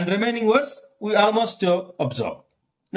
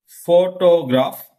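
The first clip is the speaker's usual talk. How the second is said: "Photograph" slowly, leaning on PHO; stress on first syllable; 4 dB louder, slower than usual. Shown as a demonstration. Teacher presenting shifting stress, slow first-syllable stress. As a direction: draw out "Photograph" from a strong PHO. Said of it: "stress mark is in first syllable".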